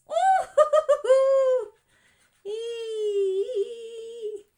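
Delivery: high, loud whooping cheer; excited cheer. Real, not acted. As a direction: whoop with delight. Cheering as it works.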